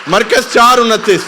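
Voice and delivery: high, very loud shouted announcement; calling out reference. Real, not acted. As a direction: shout the verse number to the whole congregation. Calls out verse to congregation. (بلند آواز میں حوالہ پکارنا)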